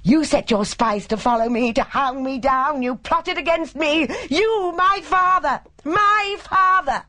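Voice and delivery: raving, very high-pitched hysterical fury; high, screaming rant. A narrator's reading. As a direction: scream accusations in a high, unhinged voice. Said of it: "raving in a high, screaming voice".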